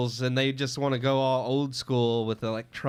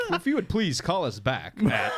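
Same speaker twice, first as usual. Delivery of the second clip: phone voice; 4 semitones higher than usual. Shown as a demonstration. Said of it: "phone messages like that though".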